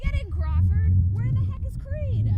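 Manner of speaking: loud impatient sergeant; sergeant shouting. Acted. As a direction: bark orders, impatient. Sergeant hurries his men.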